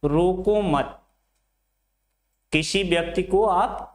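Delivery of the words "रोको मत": "रोको मत" as one unit; मत joined to रोको. Shown as a demonstration. Teacher shows the second sentence's meaning, मत bound to रोको. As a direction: run रोको straight into मत, then stop. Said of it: "लेकिन यहाँ पे क्या कह रहा है".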